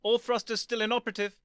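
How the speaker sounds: high, loud robotic report. Acted. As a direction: answer like a robot dog.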